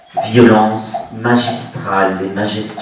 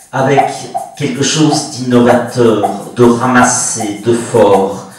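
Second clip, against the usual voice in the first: louder, punchy literary reading; emphatic recitation; 5 dB louder than usual. Real, not acted. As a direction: recite it forcefully, phrase by phrase. Emphatic literary litany praising vigour. (récitation emphatique, avec vigueur)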